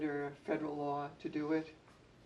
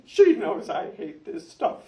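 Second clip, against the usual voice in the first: higher, louder mock wailing child, half laughing; imitating hysterical boy; 8 semitones higher, 13 dB louder than usual. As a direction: retell the sobbing boy, laughing through it. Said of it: "crying his eyes out and upset and stamping and hysterical".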